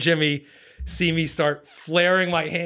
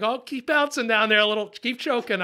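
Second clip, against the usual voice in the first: lightly pitched-up talk to a fish; playful coaxing; 5 semitones higher than usual. Retold or imitated. Angler urging the fish to take the bait, playfully coaxing. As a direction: egg it on in a higher voice.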